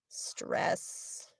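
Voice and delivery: very soft, breath-only jotting; under the breath while writing; whispered note to self. Real, not acted. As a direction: whisper it slowly as you write.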